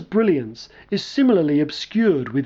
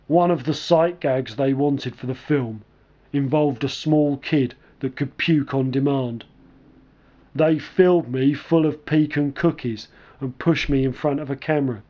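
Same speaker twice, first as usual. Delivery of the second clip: deep slow voice; 4 semitones lower than usual. Retold or imitated. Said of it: "he began in a deep, slow voice".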